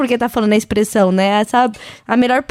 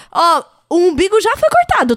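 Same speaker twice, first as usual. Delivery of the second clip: pointed reminder; 4 semitones higher than usual. Retold or imitated. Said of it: "a pessoa fala assim".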